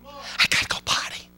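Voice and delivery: put-on soft whispered kid's whine; a hint of a whiny child; mock child whine. Mocking kids' whiny excuse.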